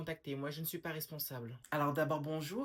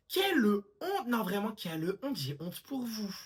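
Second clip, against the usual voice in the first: put-on scandalised old lady; 2 semitones higher, 5 dB louder, slower than usual. Old woman shaming the young generation, loud. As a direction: wail it like a shocked grandmother.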